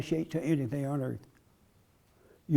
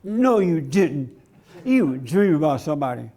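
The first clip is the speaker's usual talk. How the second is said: hammed-up jealous needling; accusing wife; 2 semitones lower than usual. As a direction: contradict him like a suspicious wife. Acted wife accuses husband of dreaming.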